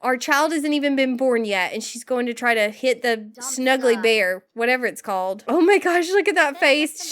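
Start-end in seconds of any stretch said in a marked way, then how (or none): 5.5-7.1 surprised gasp. Real, not acted. Reacting to sim's angry face.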